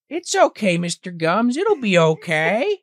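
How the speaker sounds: high, soothing put-on voice; mock reassurance. Peter and Mimi reassuring Mr Gums, high and soothing. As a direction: soothe him like a child.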